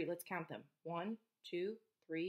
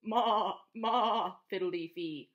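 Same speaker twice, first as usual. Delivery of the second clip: goat bleat; 5 dB louder, slower than usual. Acted. Goat voice in story.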